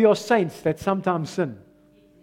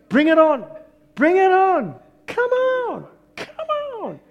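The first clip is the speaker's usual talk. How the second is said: high-pitched challenge, climbing higher with each call; defiant challenge; 12 semitones higher, 5 dB louder than usual. Acted. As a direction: call out to dare the storm on. Acting out defiant prayer in storm.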